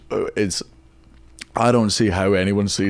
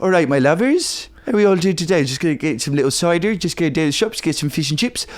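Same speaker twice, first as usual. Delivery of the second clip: Bristol West Country farmer, higher-pitched; Bristol farmer accent; 6 semitones higher than usual. Acted. Co-host showing what Bristol sounds like, farmer accent. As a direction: put on a friendly rural Bristol accent. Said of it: "What's it sound like?".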